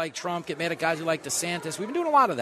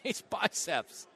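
Biden impression; 5 semitones higher, slower than usual. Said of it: "He's like".

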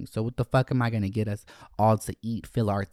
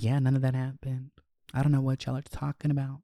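put-on softer, innocent-child denial; feigned innocence; 3 semitones higher, 3 dB quieter, faster than usual. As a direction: play innocent, quietly backing up mom. Feigned innocence backing up mother.

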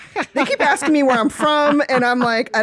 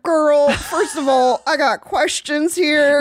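sassy; 4 semitones higher, much slower than usual. Retold or imitated. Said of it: "I was like".

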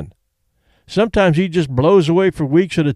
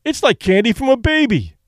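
proclaiming; 7 semitones higher than usual. A narrator's reading. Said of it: "Danny's manager proclaimed".

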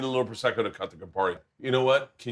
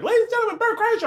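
much higher, louder stage announcer; announcer intro; 4 dB louder than usual. Retold or imitated. Host bringing the comic on stage, in a high, loud announcer voice. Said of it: "She's like".

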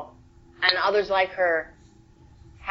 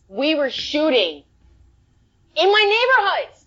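excited disbelief; 9 semitones higher than usual. Real, not acted. Disbelief at shooting at home.

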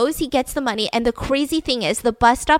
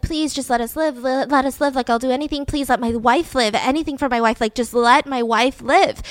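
retold desperate plea, slightly raised; pleading; 2 semitones higher than usual. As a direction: beg for a loved one's life, acted lightly. Dad begs kidnappers for wife.

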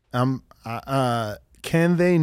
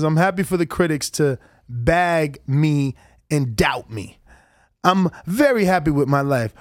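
Kambosos; 3 semitones lower than usual. Retold or imitated. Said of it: "I just love your, uh, accent you do".

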